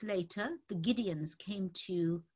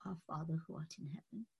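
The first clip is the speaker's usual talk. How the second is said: praying to himself; 3 semitones lower, 9 dB quieter than usual. Retold or imitated. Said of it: "I said to myself".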